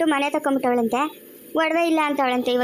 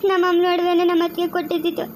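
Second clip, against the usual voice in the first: crying; 3 semitones higher than usual. Acted. Young woman to the lady over lost jewels, crying. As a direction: plead through tears, voice catching. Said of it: "ಅಳ್ಬೇಡ, ಸುಮ್ನೆ ಇರಮ್ಮ".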